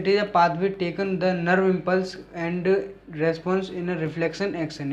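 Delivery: slow, deliberate dictating voice; slow dictation. Shown as a demonstration. Teacher dictating a definition to students, slowly. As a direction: read the definition out word by word.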